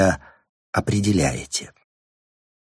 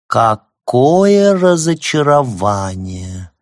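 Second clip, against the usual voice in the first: slow, high, affected drawl; 4 semitones higher, 6 dB louder, much slower than usual. Acted. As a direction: stretch it out coyly, much higher and louder. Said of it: "жеманно протянула она".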